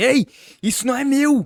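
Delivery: very high, agitated, nervous, slow. Imagining a wrongly arrested man protesting in Portuguese: mock-nervous protest. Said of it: "o cara ia falar assim: ... Todo nervoso".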